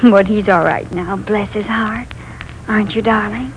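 put-on soft, soothing lull to a frightened child; rocking a scared boy in her arms; tender comfort.

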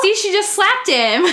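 high-pitched, laughing exclamation; amused outcry. Real, not acted. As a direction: blurt it out through laughter. Amused as one dog slaps another.

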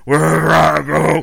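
loud, slow, guttural jingle line; death metal growl. Pretend. Toy jingle roared as death metal. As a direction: roar it like a metal singer.

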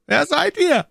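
high, loud imperious demand; commanding tone. A narrator's reading. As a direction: demand their names like a superior. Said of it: "mit demselben gebietenden Tone".

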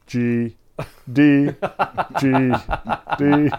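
loud, separate notes with pauses between; bassist's loud two-note thinking; plodding bass player. Acted. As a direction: call out each note like a simple bass line. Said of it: "the bass is over there thinking".

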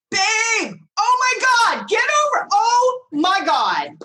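high, thrilled call to her partner; excited calling out. Retold or imitated. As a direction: call him over in a rush of excitement. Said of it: "was screaming bloody murder".

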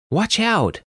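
high-pitched warning cry; acted yell, pitch leaping up. A narrator's reading. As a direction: call out a sudden danger. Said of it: "Kaylee yelled".

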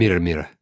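Mira said as "meer-uh"; mispronounced Mira. Shown as a demonstration. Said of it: "I love hearing Matt mispronounce that".

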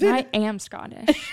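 a hint of a Scottish accent, slowed. Friend teased about her accent says it in a mild Scottish accent. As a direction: lightly put on Scottish lilt, half joking. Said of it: "Now you're Scottish".

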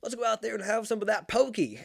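high-pitched hammed-up white-person voice; exaggerated white-person "pokey", high and peppy; really white version. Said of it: "the really white version of saying it".

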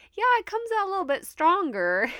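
high-pitched, on the edge of laughter; amused admission. Real, not acted. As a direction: admit it with a laugh bubbling up. Laughing about her own accent.

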